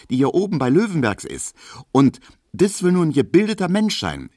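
put-on high, worked-up young woman; indignant young Emma. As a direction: get worked up about fickle men. Emma moralises about men.

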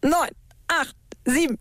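high, urgent count of reps. Real, not acted. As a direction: drive him through the last reps. Trainer counts down sit-ups. (antreibendes Herunterzählen)

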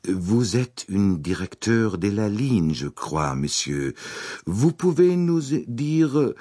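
slow, carefully shaped French words. A narrator's reading. Arbuthnot asking Poirot in stiff careful French. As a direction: pronounce each French word with deliberate care, slowly. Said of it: "sagte in sorgfältig gedrechseltem Französisch".

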